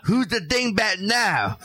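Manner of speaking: slow laughing taunt; laughing catchphrase. Pretend. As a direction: crack up mid-line.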